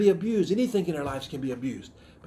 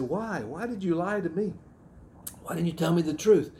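pitched-up, insistent questioning; retold confrontation; 2 semitones higher than usual. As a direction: re-enact pressing someone for the reason they lied. Confronting man who lied to him.

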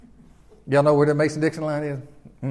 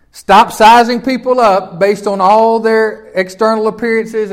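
raised and slowed, leaning hard on "sizing"; louder preaching; 4 semitones higher, 5 dB louder, slower than usual. Real, not acted. Pastor warning his church against judging, raised and emphatic. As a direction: drive the point home to the pews.

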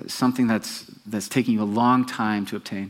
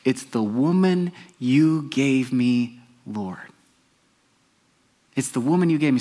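slow, drawn-out whiny excuse; mock Adam pleading his case; slowly put-on excuse voice; Adam blaming; slower than usual. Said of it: "but he said".

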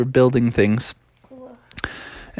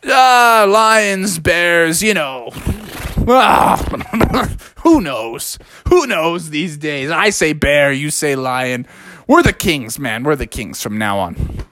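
easygoing bear dad; 3 semitones higher than usual. Acted. Dad bear waves off Bubby's lion question, breezy. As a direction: shrug it off like a laid-back dad.

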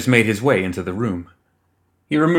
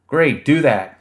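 shouted; 5 semitones higher, 4 dB louder, slower than usual. A narrator's reading. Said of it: "she shouted".

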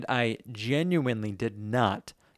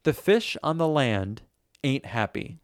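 reciting lyrics; slower than usual. Shown as a demonstration. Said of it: "I guess I'm speaking this".

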